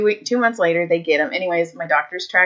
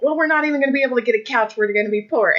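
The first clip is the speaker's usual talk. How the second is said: hammed-up panicked rant, pitched up and rushed; mock yelling, fast; 4 semitones higher, much faster than usual. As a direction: rattle it off in a fast, high mock tirade. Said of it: "he starts yelling at me".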